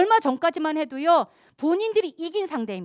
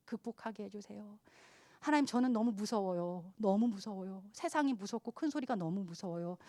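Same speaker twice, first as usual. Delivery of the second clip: much softer, trembling plea to God; fearful prayer; 4 semitones lower, 11 dB quieter than usual. Retold or imitated. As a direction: pray it hushed and scared. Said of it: "트라우마를 붙잡고 하나님 앞에 씨름하는". (두려움에 떨며 작게 드리는 기도)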